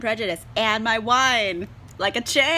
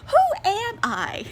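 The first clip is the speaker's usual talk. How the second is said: much higher, slow, laughing at herself; laughing disbelief; 11 semitones higher, 6 dB louder, slower than usual. Real, not acted. Reviewer laughs at herself for loving Jane Austen. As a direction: ask it amused at your own change.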